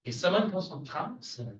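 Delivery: English as spoken by someone from France; accent from France. Shown as a demonstration. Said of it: "I'll tell you how you tell the difference".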